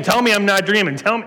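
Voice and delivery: put-on New York accent. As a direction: mimic the insistent New York caller. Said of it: "this is my best New York accent".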